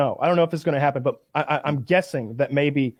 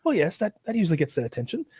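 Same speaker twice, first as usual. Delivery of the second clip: English bobby voice; 3 semitones higher, 5 dB quieter than usual. Retold or imitated. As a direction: lightly imitate a proper English bobby. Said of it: "the English Bobby cop".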